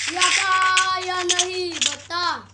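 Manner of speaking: slow, loud pressing; slow demanding question. Real, not acted. Friend pressing for a yes or no, slow loud demand. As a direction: drag it out to force an answer.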